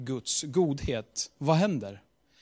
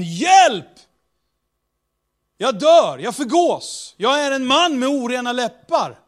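panicked cry; 8 semitones higher, 7 dB louder than usual. Acted. Isaiah cries out in despair.

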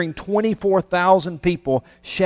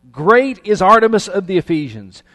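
loud, higher rallying chant; crowd's shout; 5 semitones higher, 7 dB louder than usual. Acted. Furious crowd in Ephesus hails its goddess, loud shout. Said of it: "began shouting".

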